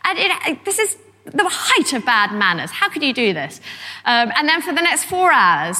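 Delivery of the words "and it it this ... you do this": lightly voiced indignant lady of the house; mock dame's outrage. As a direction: scold the searchers like an affronted dame. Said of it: "this barrage of damish outrage".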